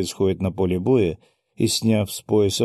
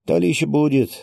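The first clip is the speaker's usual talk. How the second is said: higher and louder smirking remark; 7 semitones higher, 4 dB louder than usual. Acted. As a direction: say it with a knowing smirk. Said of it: "хмыкнул Гинзо".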